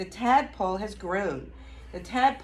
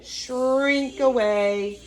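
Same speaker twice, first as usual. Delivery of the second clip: slow drawn-out; 2 semitones higher, much slower than usual. Shown as a demonstration.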